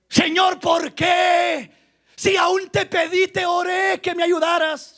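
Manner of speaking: preacher mimicking a believer blaming God; mock complaint to God. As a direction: complain like an ungrateful church member.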